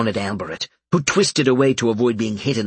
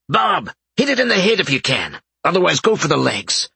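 urgent call, raised and higher; crying out; 7 semitones higher than usual. A narrator's reading. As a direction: call out over the fight. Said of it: "Albert cried out".

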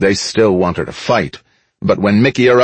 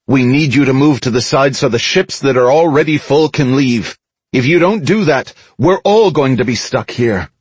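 higher-pitched public appeal; urgent crowd address; 6 semitones higher than usual. A narrator's reading. Mickey asks the crowd to clear the ships, urgent address. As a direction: reason urgently with a whole crowd.

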